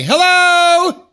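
squeaky high hello into the phone. Acted. TJ picks up the call with a squeaky high hello. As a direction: answer sky-high like a cartoon.

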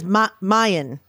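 put-on mine stretched into "Mayan" in his accent; imitating his accent. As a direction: mimic his accent, mine in two syllables. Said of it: "But he says".

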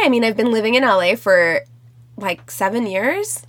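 vocal fry and lilt. Real, not acted. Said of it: "The way you just said".

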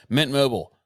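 grand Shakespearean sign-off; hammy stage actor. Acted. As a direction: proclaim it like a stage player. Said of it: "Your Chat G P T is funny".

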